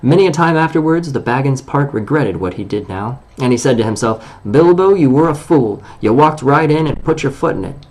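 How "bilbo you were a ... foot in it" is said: self-reproach. Acted. Bilbo scolds himself.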